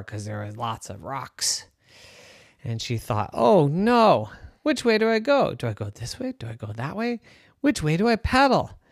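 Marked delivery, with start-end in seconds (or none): 3.3-8.8 put-on scared girl. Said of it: "And she was so scared".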